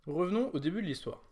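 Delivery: ordinary talk, nothing marked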